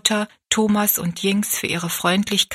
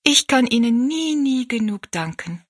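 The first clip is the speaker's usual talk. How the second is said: a touch of moved gratitude, higher; the girl nearly overcome with thanks; 5 semitones higher than usual. A narrator's reading. Rosalie hugging the old woman, lightly moved. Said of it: "sagte Rosalie bewegt".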